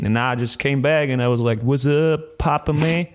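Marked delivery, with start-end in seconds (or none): 1.6-3.1 put-on street-accented greeting, a little lifted; mock gangster accent. Back from New York greeting Papa, mock gangster accent. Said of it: "are you going to do this accent".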